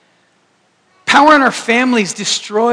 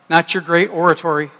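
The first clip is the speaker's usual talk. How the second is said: ordinary talk, nothing marked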